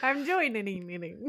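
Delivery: "joining-ning-ning-ning" with ning echoed over and over; stuttered ending. Retold or imitated. Mocking her own slip, "joining-ning-ning-ning" with a repeating tail. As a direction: let "joining-ning-ning-ning" get stuck on its last syllable. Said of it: "I feel like I said join-ning-ning-ning".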